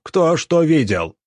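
high, slow angry demand; barked. A narrator's reading. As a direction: bark it at the crowd. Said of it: "рявкнул Глушаков".

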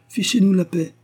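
high, loud, rude dismissal; shouted rebuff. A narrator's reading. Police chief brushes off the pleading pastor, shouting. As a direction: bark it to get rid of him. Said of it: "cria cet homme".

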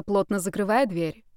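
ordinary delivery

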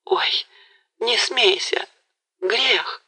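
high, startled little cry; a hint of pious fright; shy girl's protest. A narrator's reading. Galina begs Mazepa not to mock, high and shy.

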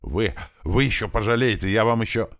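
humiliated fiancé threatens in fury; angry outburst. A narrator's reading. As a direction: blurt it out in rage. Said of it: "со злостью выпалил".

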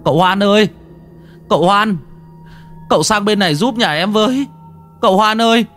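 high urgent call from the gate. Acted. Villager at the gate calling Hoan, high urgent shouts. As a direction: call the young master over the fence, pleading.

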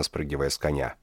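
plain reading voice

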